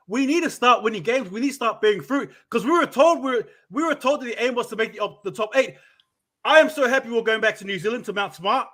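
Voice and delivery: worked up and emphatic; impassioned loud rant. Real, not acted. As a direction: plead the case with real passion. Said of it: "forgive me for my volume".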